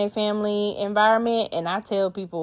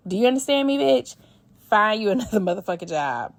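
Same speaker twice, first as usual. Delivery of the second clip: scolding; 2 semitones higher, faster than usual. Real, not acted. Scolding the emailer directly.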